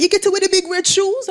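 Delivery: high, loud, delighted grandma question; grandma thrilled about her grandchild's clown career; excited grandma. Retold or imitated. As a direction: squeal it like a thrilled granny. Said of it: "She was like".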